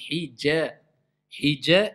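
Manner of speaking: HIJA with a thin, front A; thinned muraqqaqa. Shown as a demonstration. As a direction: keep both syllables of Hija light.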